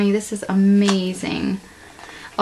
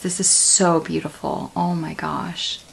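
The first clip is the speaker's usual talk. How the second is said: softer, moved and hushed; tender hush; 4 semitones lower, 6 dB quieter than usual. Real, not acted. Thanking her friend Bonnie, soft moved murmur.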